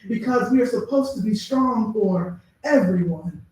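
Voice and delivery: measured, deliberate poetry recitation with weighty pauses; spoken word poem. Acted. Poet performing to an audience, grave and measured recital.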